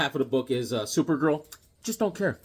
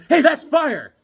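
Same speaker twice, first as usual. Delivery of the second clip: mock youth slang; 10 semitones higher, 5 dB louder, slower than usual. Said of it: "You say fire a lot".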